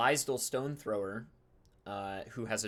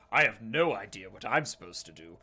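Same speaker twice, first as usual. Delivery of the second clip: louder, blustering Scottish-free bluster; loud Billingston; 6 dB louder than usual. Acted. Billingston sits down at the council, cheerfully loud. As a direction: boom it out cheerfully.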